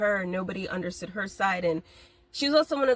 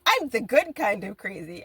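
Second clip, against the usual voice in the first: boastful mock voice; 4 dB louder than usual. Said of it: "be that person to be like".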